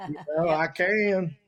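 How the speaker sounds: broad put-on hometown Southern accent; exaggerated Southern accent. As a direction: lay the Southern on thick to mock. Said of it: "You want me to do like this".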